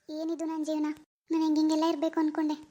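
soft, sorrowful lament; subdued and heartsick; despondent. Acted. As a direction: talk to yourself in quiet grief. Grieving mother alone, laments her life.

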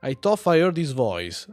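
game character voice. Acted. Old lady character in game.

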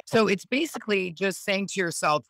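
ordinary talk, nothing marked

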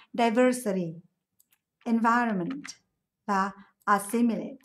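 "Diversity", "environment", "assimilate" each stressed on second syllable. Shown as a demonstration. Teacher lists remaining answers, each word stressed on second syllable. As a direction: model the words, second syllable strong in each. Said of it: "Các từ còn lại âm tiết số hai".

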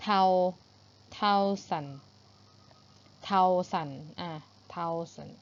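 THOUSAND built up from "thou" to "thou-sun"; careful th pronunciation. Shown as a demonstration. Teacher working out the sound for pupils, careful pronunciation. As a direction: repeat THOUSAND slowly, syllable by syllable. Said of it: "มันน่าจะออกเสียงแบบนี้แหละ".

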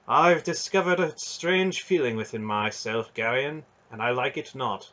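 the proud knight admitting a weakness; earnest knight voice. Acted.

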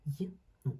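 й and у as two separate sounds; sounding out. Shown as a demonstration. Teacher repeating the two sounds of ю, sounding out. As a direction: say й, then у, apart. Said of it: "у позначає два звуки".

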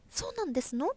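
high, genteel princess question; princess role. Retold or imitated. Actress showing how she played a princess, high princess voice. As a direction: play the stage princess with a lifted voice. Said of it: "一回お姫様やったんですよ".

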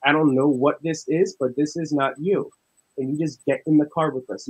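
firm, worked-up retold pleading; urgent retold plea. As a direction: replay an urgent appeal to a friend, starting loud. Retold urgent plea to possessed friend.

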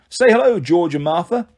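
coaxing prompt. Acted. Jogger asks his snakes to greet Percy, coaxing. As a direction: coax them to greet the guest.

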